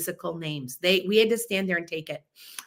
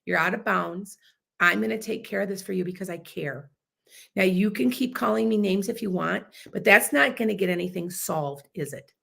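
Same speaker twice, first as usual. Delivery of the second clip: calm firm; 2 semitones lower than usual. Shown as a demonstration. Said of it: "See how I could stay calm".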